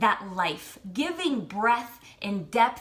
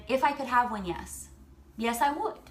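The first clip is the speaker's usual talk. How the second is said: frog in the throat; choked up. Real, not acted. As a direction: voice catching with emotion. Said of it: "got a little frog in my throat".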